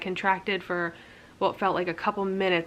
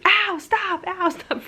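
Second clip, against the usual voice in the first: high, loud pained cries, voice jumping up; retold scream of pain; 12 semitones higher, 5 dB louder, much slower than usual. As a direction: yell it like the pain is too much. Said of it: "I'm literally screaming".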